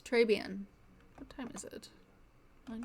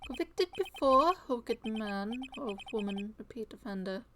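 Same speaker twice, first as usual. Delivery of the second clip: dramatic poem reading. Acted. Lawyer reading the poem with feeling, fading. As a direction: recite with mock feeling, dying away. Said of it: "Put some feeling into it".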